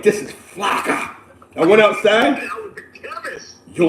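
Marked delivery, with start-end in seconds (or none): 0.0-1.1 slow, breathless whispered verdict; hushed aside. Retold or imitated. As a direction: mutter it to yourself like a secret. Judging the cut bag, hushed.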